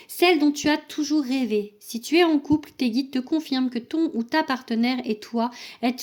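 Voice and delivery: fluent read-aloud of an oracle message; reading a card message. Acted. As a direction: read the card out to the listener, easing down at the end. (lecture à voix haute d'un message d'oracle)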